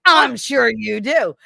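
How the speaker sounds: slow, high, loud mock sarcasm; stretched, emphatic sneering tone; retold snide retort. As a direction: imitate a teacher's drawn-out sarcastic comeback. Retold nasty teacher's retort.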